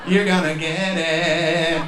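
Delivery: drawn-out, slow mock threat; slow ominous promise. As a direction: stretch every word like a curse. Slow menacing repeat, drawn out.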